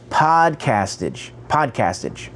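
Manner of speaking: "Podcastage" said deliberately, testing how it sounds; careful pronunciation. Shown as a demonstration. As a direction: try out the name "Podcastage" carefully. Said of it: "I think that's how it's pronounced".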